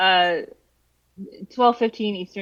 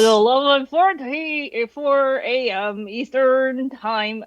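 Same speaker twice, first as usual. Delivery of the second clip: put-on drunk voice; 4 semitones higher, slower than usual. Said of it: "a deep drunk voice".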